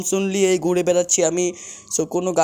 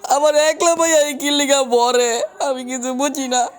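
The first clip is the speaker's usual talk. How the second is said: frustrated yelling; 7 semitones higher than usual. Real, not acted. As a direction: shout in disbelief at dying. Killed again by an enemy.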